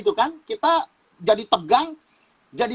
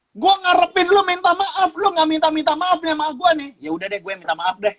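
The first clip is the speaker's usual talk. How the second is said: grudging apology; 7 semitones higher than usual. Retold or imitated. Voicing the petty grudge.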